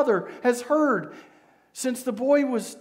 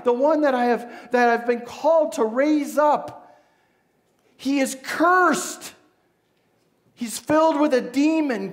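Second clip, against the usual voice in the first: desperate father; 2 semitones higher, 4 dB louder than usual. Acted. Father begging Jesus for son.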